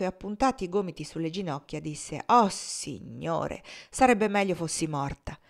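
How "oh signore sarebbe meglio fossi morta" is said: grumbling. Acted. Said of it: "la sua voce pareva un grugnito".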